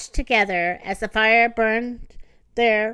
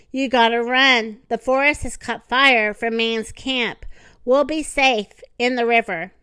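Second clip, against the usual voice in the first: urgent; 4 dB louder than usual. Acted. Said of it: "urging him to stand".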